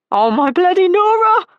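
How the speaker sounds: high, loud shriek of surprise; scream. A narrator's reading. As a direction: shriek it out to the whole courtyard. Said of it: "V screamed".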